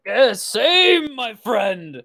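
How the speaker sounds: excited reply. Acted. Goliath returns barkeep's hail.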